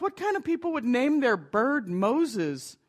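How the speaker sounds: mocking. Burglar mocks whoever named the bird, lightly scornful. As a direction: sneer at the silly name. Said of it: "the burglar laughed".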